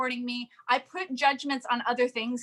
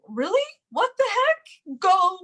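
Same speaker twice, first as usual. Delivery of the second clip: higher, indignant mock brush-off; annoyed prospect; 5 semitones higher than usual. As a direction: play the fed-up friend rejecting a pitch. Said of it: "she'd be like".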